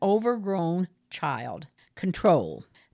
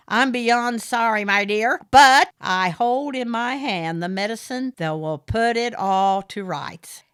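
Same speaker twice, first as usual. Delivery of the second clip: high, loud smarmy gentleman voice; fawning over Aideen, the smarmy caller; Morris, oily suitor; 3 semitones higher, 6 dB louder than usual. A narrator's reading. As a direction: purr it like a pushy suitor.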